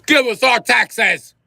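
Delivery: high, loud, slow pompous demand; mock British demand. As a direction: drag it out like a haughty tax collector. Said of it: "quoting the British demand".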